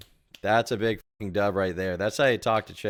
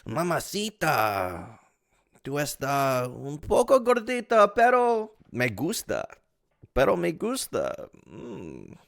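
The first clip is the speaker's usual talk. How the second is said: mock Latino flirt; 4 semitones higher, slower than usual.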